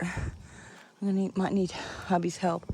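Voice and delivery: winded from lifting; breathless after heavy bag; out of breath. Real, not acted. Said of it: "I'm out of breath".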